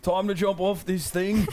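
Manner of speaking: put-on wobbly British accent, could pass for Australian; badly faked British frog voice. Guest playing the bullfrog, muddled British accent. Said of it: "Is that British or is that Australian?".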